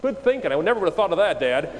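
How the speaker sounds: high, loud mock enthusiasm; exaggerated, high-pitched sarcasm to dad; sarcastic praise. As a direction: gush sarcastically at an obvious suggestion. Mock thanks to dad's obvious suggestion.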